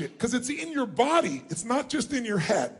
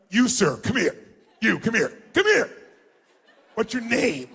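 dismissive demo. Shown as a demonstration. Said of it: "like it's a total waste of your time".

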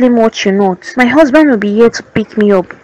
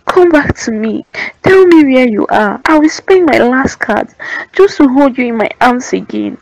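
tearful plea; 2 semitones higher than usual. Acted. Mother pleading to her lost daughter.

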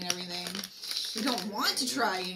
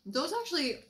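talking through a mouthful; speaking while chewing; mouth full; 4 semitones higher than usual. Real, not acted. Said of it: "pardon me for talking with my mouth full".

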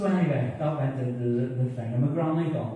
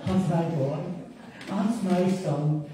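lightly voiced proud granny, a little higher; doting granny; 4 semitones higher, slower than usual. Granny gazing up at her beloved grandson, lightly voiced doting. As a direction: draw it out like an adoring grandmother. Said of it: "And she said".

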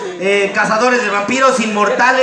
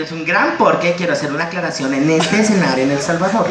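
macho cartoon voice. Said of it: "Diría algo así como".

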